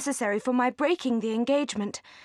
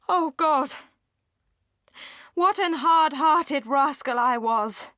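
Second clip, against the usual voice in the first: anguished self-reproach; 3 semitones higher, 3 dB louder, slower than usual. Acted. Willoughby confessing his cruelty.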